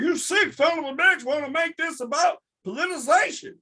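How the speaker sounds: high, strained mock hick yelling. Mocking a hick who cussed out Beto, high put-on yell. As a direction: squeal it like an angry hick heckler. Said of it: "have some hick, you know, cuss him up".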